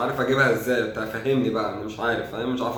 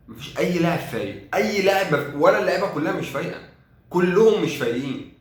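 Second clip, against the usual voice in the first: higher-pitched exasperated rant; exasperated complaint; 5 semitones higher than usual. Real, not acted. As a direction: voice climbing in disbelief at the team. Complains about the whole team.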